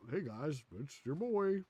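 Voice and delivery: mock streamer intro, pitch jumping up at the end; imitating video host. Streamer mimics the next autoplay video's host, mock intro voice. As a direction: parody an upbeat video greeting. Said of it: "next one pops up".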